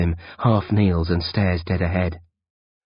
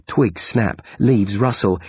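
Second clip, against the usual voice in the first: usual speaking voice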